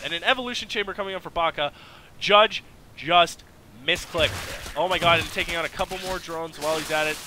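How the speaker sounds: loud, high, fast hype over the fight; excited shouting. Real, not acted. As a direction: yell it like the fight just broke out. Caster hyped by a fight.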